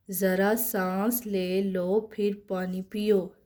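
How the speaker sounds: each sentence read slowly and evenly, twice; slow model reading. Shown as a demonstration. Teacher reads the primer sentences slowly for students. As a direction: read it out for the class to copy. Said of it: "अब ये जुमला बना हुआ है".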